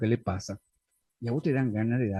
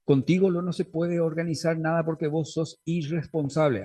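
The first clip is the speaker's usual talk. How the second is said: accusing tone; 3 semitones higher than usual. Shown as a demonstration. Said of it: "No es lo mismo decir".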